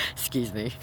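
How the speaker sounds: high giggle breaking through; real amused laugh at himself. Real, not acted. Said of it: "I'm just laughing at how I look".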